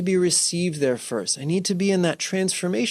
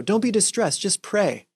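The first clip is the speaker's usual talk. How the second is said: higher, mock-pious dismissal; preachy brush-off; 5 semitones higher than usual. Friend dismissing a distressed person with a quick fix, mock pious. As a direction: wave off their distress with a pat answer.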